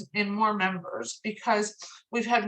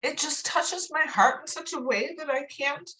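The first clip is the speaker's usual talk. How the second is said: real choked-up, heartfelt voice; crying; 2 semitones higher than usual. Real, not acted. Telling her people they touch her heart, crying. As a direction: push the words out through tears. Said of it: "I hate fucking crying in public".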